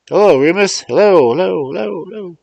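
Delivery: high and loud, tinny calls down the line; thin telephone voice. Acted. Mars John calling Remus again through the phone, loud and tinny. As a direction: keep hollering hello into the phone.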